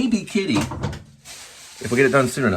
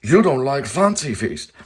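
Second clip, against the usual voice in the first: mock ad voice; 5 semitones higher, slower than usual. Ad voice line to cat.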